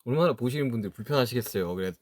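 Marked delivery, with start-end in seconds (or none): none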